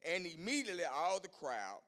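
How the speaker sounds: slow, measured Bible reading; scripture reading. Acted. Preacher reading Matthew to the church: slow measured reading. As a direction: read the verses deliberately.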